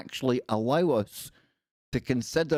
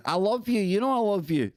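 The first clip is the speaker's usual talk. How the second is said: playful; 9 semitones higher than usual. Real, not acted. Affectionate call-out to a viewer.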